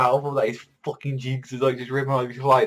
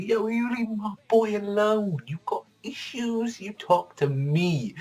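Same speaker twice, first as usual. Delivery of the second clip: defensive Magna; 11 semitones higher, slower than usual. Retold or imitated. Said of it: "Even fucking Manga's like".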